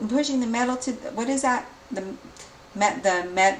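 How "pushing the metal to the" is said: "pushing the metal to the" said as the muddled idiom; mixed-up idiom. Real, not acted. Reader garbling the idiom to her viewers, mixed-up words. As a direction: fumble into "pushing the metal to the" before fixing it. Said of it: "no, the pedal to the metal".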